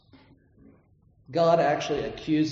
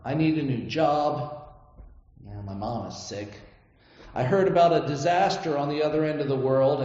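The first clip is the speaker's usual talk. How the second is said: demanding list prayer; 2 semitones lower than usual. Shown as a demonstration. Preacher demoing a glory thief's prayer, demanding tone. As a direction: rattle off requests like a chore list. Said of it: "Do you hear the difference?".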